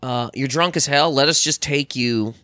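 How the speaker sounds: low, steady, patient calming tone; calm cop voice. Retold or imitated. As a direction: talk a drunk down gently. Cops calming drunk man.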